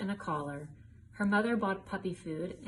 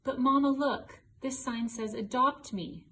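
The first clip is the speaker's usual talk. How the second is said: put-on excited child; 5 semitones higher, 5 dB louder than usual. Child begging mother for puppy.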